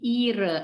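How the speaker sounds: "ire" with long I, no H sounded; silent H. Shown as a demonstration. Teacher summing up the rule, silent H in "ire". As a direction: hold the I in "ire". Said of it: "hanya itu silent".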